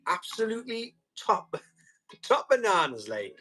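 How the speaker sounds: a playful hint of a singer; impression of a singer. Seller reading a chat question, mildly imitating a singer. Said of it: "a better impression of a Joe Jackson".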